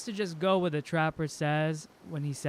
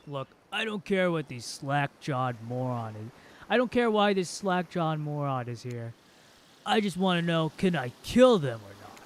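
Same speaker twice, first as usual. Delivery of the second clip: impatient killer. Acted.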